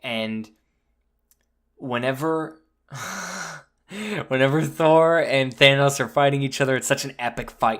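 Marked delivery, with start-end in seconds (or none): none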